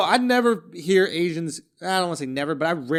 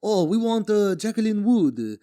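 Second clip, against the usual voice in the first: higher, slowed, hammed-up mock Asian accent with a laugh; lampooning a politician's fake Asian accent, played for laughs; 5 semitones higher than usual. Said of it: "he starts going".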